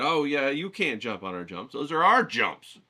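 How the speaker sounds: put-on indignant kid comeback. Kid defending his yard jumps.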